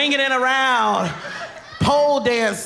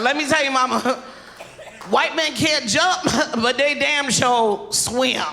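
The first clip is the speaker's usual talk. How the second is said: laughing punchline shout; 4 semitones higher than usual. Retold or imitated. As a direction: crow it through laughter. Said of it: "it's like".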